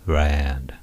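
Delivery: "land" said as "rand", starting from a throaty "uu"; very slow R in place of the L of "land"; drawn-out English R. Shown as a demonstration. Teacher showing learners R, slow and exaggerated. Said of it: "うーっていうこのland".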